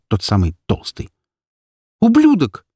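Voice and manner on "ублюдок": high, loud insult hurled out; a captive girl screams at the fat thug in fury; furious shout. A narrator's reading. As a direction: spit it at him in rage. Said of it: "закипело от злости".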